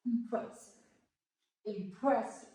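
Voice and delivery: "impressive" with the stress on PRESS; teacher's word demo, "impressive" stressed on PRESS; second-syllable stress. Shown as a demonstration. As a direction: lean on the middle syllable of "impressive". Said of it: "stress more and, uh, in the second syllables".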